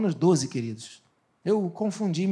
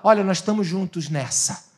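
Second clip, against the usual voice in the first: the enemy speaking; 4 semitones lower, 4 dB quieter than usual. Retold or imitated. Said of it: "ele propõe ajuda e ele fala".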